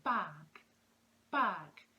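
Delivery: word demo. Shown as a demonstration. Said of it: "we say the word".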